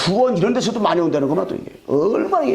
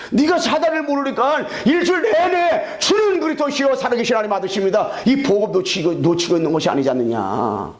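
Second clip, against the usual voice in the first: high, forceful preaching cry; preaching shout; 4 semitones higher than usual. Real, not acted. Preacher crying out to the congregation, high and forceful.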